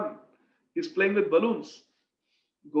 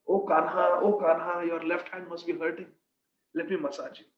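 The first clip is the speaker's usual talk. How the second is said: soft, lowered, caring; a mother soothing her son's sore hand; tender mother. Retold or imitated. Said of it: "her soft, loving hands".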